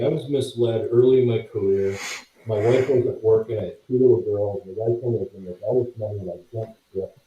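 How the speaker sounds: muffled underwater mic sound. Real, not acted. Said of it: "it sounds like you're underwater".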